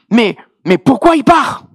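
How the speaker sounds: high, protesting mock Ivorian accent. Sister questions God about the departure, high Ivorian-accented protest. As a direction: plead indignantly as an imitated Ivorian woman, accent put on. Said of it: "avec son bel accent ivoirien".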